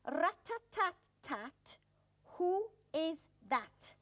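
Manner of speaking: very slow chanted rhyme; slow sing-song rhyme; nursery rhyme. Acted. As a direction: recite it slowly to children.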